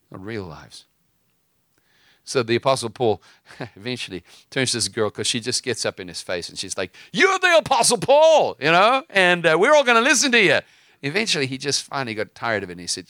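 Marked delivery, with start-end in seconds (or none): 0.1-0.9 "real" leaned on, echoed much softer; quiet emphatic echo of "real"; hushed stress on "real"; stress on real, softly repeated. Real, not acted. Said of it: "We're gonna offer Jesus our real lives". 7.1-10.6 high, loud, sing-song mock voice of a possessed girl; loud high taunting girl; shrill mocking girl.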